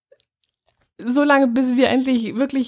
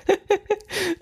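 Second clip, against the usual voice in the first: high giggle; 11 semitones higher, 5 dB quieter than usual. Real, not acted. Laughing again.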